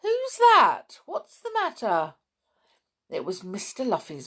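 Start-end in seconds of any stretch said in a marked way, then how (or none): 0.0-2.1 high, loud worried call from afar; anxious calling. A narrator's reading. Mister Luffy calling to the sobbing girl, anxious. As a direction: call out anxiously to find her. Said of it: "an anxious voice calling".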